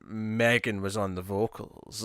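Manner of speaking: slow, overblown movie-trailer narrator; cheesy movie narration. Retold or imitated. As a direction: drag it out like a cheesy voiceover. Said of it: "really cheesy narration".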